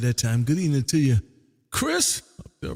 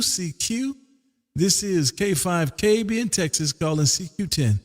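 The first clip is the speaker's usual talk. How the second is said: radio CQ call; 3 semitones higher than usual. Acted. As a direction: call out for any station, steady and clear. Calling CQ on the radio.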